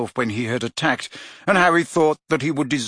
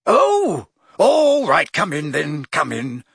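relenting; 2 semitones higher, 4 dB louder, slower than usual. A narrator's reading. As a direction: give in with a sigh.

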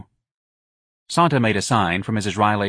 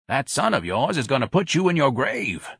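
higher-pitched foreboding; warning Mr Robichaux; 5 semitones higher than usual. Acted. Robichaux warns Irene about her son, earnest. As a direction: warn a friend gravely, in character.

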